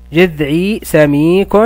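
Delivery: each word drawn out slowly for pupils; slow model reading. Shown as a demonstration. Teacher modelling the phrase slowly for pupils. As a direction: stretch جذعي سميك slowly with rising end. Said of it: "نلاحظ يا أبطال".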